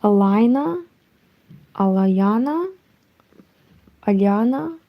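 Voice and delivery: tentative attempt at an American accent, one name at a time; pretend American accent. Non-American streamer guessing a viewer's name, pretend American accent. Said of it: "pretend I can read it with American accent".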